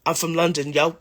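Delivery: lightly put-on London English; a hint of London English; modern London accent. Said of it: "more like London".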